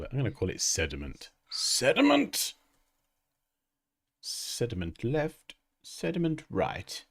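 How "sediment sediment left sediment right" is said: high, slow villain drawl; mustache twirling villain. Pretend. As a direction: gloat like a cartoon villain. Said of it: "That's my villain laugh".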